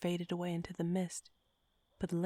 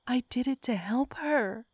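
protesting; 6 semitones higher, 4 dB louder than usual. A narrator's reading. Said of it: "she protested".

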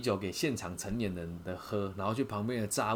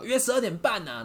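imitated blurt; 11 semitones higher, 6 dB louder than usual. Youth checks his watch.

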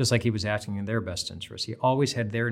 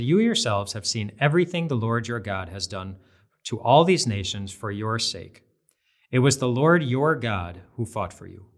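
scripture reading; 3 dB louder than usual. Acted. Reading Joshua's words aloud.

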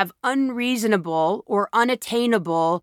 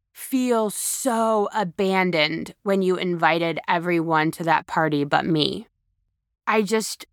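vulnerable confession. Shown as a demonstration. Speaker shows how to tell a loved one you felt rejected, vulnerable. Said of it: "and you go".

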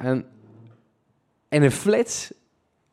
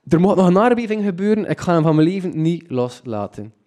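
higher, louder, dead-set vow; fierce resolve; 5 semitones higher, 3 dB louder than usual. Retold or imitated. Victim grabbing the thief by the collar, fiercely determined. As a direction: swear you won't let go. Vows to hold the pickpocket.

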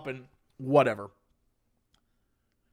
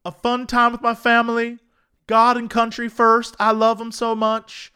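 lightly voiced sentimental old woman; slightly raised, hammed-up granny reminiscing; imitating old lady; 4 semitones higher than usual. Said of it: "sounds like something she would say".

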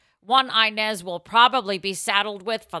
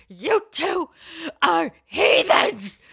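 scolding mother, sharp and raised; angry mother; 10 semitones higher, 5 dB louder, much slower than usual. Retold or imitated. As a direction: hurl heathens at the kids like a furious mom. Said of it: "She goes".

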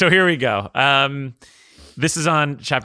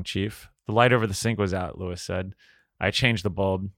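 measured, lower audiobook read; story narration; 3 semitones lower than usual. A narrator's reading. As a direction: read the love scene evenly aloud. Reads second passage aloud.

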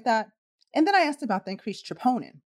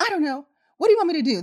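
higher, louder, exasperated nurse; frustrated; 7 semitones higher, 4 dB louder, much faster than usual. Retold or imitated. Night nurse snapping back at transport nurse, frustrated. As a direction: throw the question back in frustration. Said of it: "She got real frustrated".

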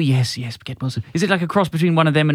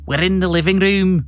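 Sheikh Vizier; 2 semitones higher, 5 dB louder, slower than usual. Acted. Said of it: "Sheikh Vizier says".

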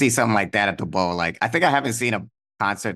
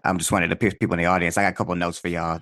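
audience member Greg. Acted. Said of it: "my name's Greg".

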